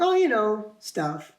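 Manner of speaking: casual brush-off, dropping away at the end; nonchalant. Retold or imitated. Man dodging girlfriend's question about depression, nonchalant. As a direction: shrug it off, trailing down. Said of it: "nonchalant about it".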